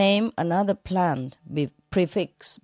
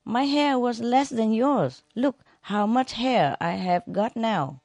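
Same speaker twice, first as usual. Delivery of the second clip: boastful salesman; 5 semitones higher than usual. Retold or imitated. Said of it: "Salesman say".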